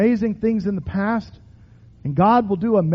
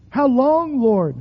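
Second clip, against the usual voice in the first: pleading cry; 4 semitones higher, slower than usual. Shown as a demonstration. Preacher modelling a cry to God. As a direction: lift the voice on long. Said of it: "Cry out".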